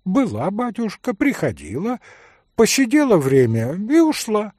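put-on high old woman's voice; lightly voiced old servant woman. A narrator's reading. Old servant woman peers at Mitya in the dark, high old voice.

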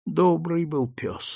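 a soft sigh of a line, slowed down. Acted. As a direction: priest sighs to grieving master, softly and slowly. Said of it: "вздохнул поп".

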